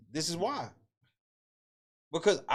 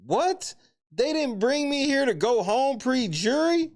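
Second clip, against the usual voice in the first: high, slowed echo of her words in disbelief; incredulous repeat; 9 semitones higher, 4 dB louder, slower than usual. Real, not acted. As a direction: throw her own words back at her, stunned. Repeats the clip line in outrage.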